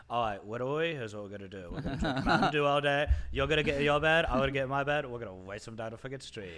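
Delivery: put-on child's voice with a British tinge; little kid voice. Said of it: "while he's doing that voice".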